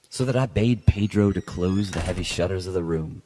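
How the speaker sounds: measured, lightly dramatic reading of a gothic tale; story narration. A narrator's reading. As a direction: read it like a classic gothic story, unhurried. Reads Poe story aloud.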